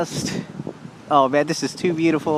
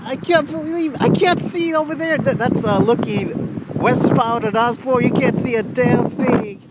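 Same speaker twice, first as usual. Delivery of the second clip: excited; 5 semitones higher than usual. Real, not acted. Caught in the dust storm.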